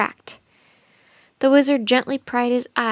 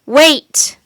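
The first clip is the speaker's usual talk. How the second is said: loud, higher wait rising at the end; yell; 4 semitones higher, 11 dB louder than usual. A narrator's reading. Teddy yells to stop the wizard's spell. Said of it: "someone yelled".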